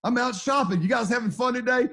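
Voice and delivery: chirpy wife calling mid-shopping; cheerful wife asking about his day; wife on the phone. Retold or imitated. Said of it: "She calls and she says".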